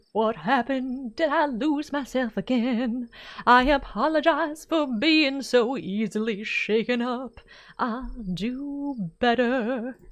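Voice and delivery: slow, dazed character; dazed apology. Acted. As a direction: come back to yourself ashamed.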